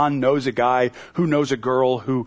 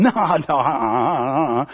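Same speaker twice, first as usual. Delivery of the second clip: soft nervous denial; 2 semitones lower, slower than usual. Retold or imitated. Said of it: "a softer sort of a denial".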